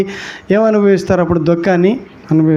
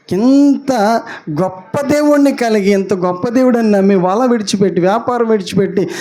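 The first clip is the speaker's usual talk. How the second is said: a touch of weeping, voice higher and pleading; mild mock lament; 4 semitones higher than usual. Preacher voicing Peter's regret to the church, mildly tearful. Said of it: "అని ఏడుస్తున్నారండి".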